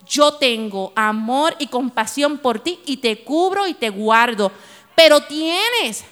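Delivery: slow, tender divine voice; voice of the Spirit. Retold or imitated. Holy Spirit speaking tenderly to Ángela, slow and gentle. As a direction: speak slowly and gently, as if comforting. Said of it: "me gritaba y me decía".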